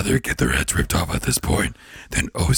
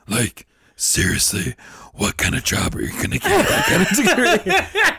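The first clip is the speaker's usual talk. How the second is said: Satan voice; 5 semitones higher than usual. Retold or imitated. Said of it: "Satan voice".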